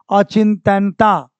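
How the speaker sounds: अचिंतनता drawn out syllable by syllable; very slow. Shown as a demonstration. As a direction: stretch अचिंतनता slowly. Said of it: "चिंतनता नहीं होता है".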